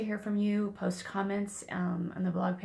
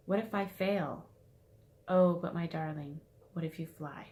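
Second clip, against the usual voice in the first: expressive poem recital, gently lifting the final question; poem reading. Shown as a demonstration. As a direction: read the poem line by line, leaning into it. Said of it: "put the emphasis into reading it".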